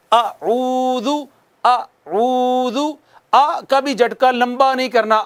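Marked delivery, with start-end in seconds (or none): 0.1-2.8 slow rounded اعوذ; Quranic recitation. Shown as a demonstration. Teacher models recitation, slow chant. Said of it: "یہ کام ہم نے نہیں کرنا".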